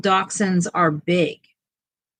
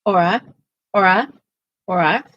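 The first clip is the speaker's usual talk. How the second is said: calling a dog; 5 dB louder than usual. Real, not acted.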